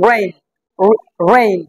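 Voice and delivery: "রেইন" opening on a curled English r; rounded, drawn-in r starting "রেইন"; tongue-curled r. Shown as a demonstration. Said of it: "উচ্চারণটা দেখো ভালো করে".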